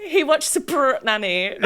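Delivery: put-on loud, slow British accent; jokey posh British accent. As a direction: tease in a hammed-up British accent. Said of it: "how he worked out how to do the accent".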